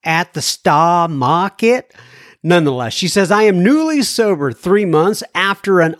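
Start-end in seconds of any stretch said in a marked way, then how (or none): 0.1-1.9 playful mock Boston accent, dropped Rs; lightly hammed Boston accent with a laugh. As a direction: tease her in a Boston accent. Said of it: "I have a bit of a Boston accent".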